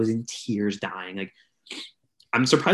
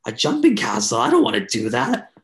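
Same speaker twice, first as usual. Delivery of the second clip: louder, higher incredulous reply; 4 semitones higher, 5 dB louder than usual. Retold or imitated. Turning down a jumping castle invite, incredulous. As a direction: scoff at the idea. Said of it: "I'm like".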